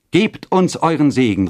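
high, ringing entreaty; joint call. A narrator's reading. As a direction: call out together, imploring. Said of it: "riefen beide".

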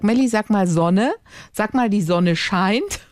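put-on slowed-down parent prompting a small child; re-enacted speech practice prompt. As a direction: coax the child to repeat, drawing the words out.

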